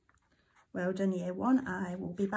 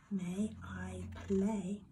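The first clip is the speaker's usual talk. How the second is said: slow whisper, drawing out each word; whispered dictation; much slower than usual. Shown as a demonstration. Teacher to pupils, slow whispered dictation. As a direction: breathe the words slowly as you write. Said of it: "dictating while writing".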